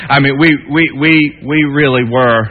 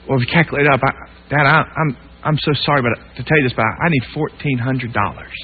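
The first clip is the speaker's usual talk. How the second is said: ashamed and quiet; 3 semitones lower, 6 dB quieter than usual. Retold or imitated. Son ashamed asking dad for money.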